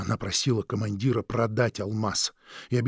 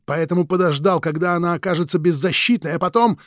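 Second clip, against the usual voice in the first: angry accusation; 5 semitones higher, 6 dB louder than usual. Acted. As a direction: hammer him with the charge.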